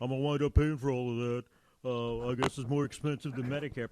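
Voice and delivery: doubtful grumbling caller; lightly voiced skeptic, scoffing. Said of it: "That's my imitation of a skeptic".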